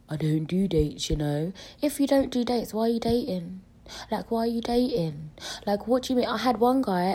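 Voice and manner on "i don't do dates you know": mocking guy voice. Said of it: "men saying".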